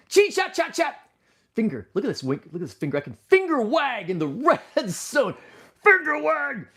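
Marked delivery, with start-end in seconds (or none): 0.1-1.0 squeaky high sing-song chant; high silly voice. Acted. Playful sing-song echo. 3.1-6.7 squeaky excited cartoon voice; high silly voice. Playful voice showing finger.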